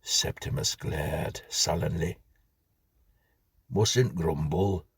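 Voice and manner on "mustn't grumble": slow, cosy Yorkshire "Mustn't grumble"; mild Yorkshire grocer small talk; smiling Yorkshire grocer. Acted. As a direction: smile through it, Yorkshire and content. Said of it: "the grocer went on, smiling benignly".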